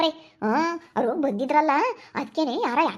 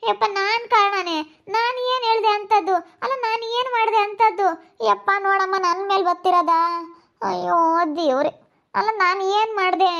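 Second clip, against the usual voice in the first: wailing lament; 3 semitones higher than usual. Acted. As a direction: wail like a wronged mother. Mother wails at being blamed.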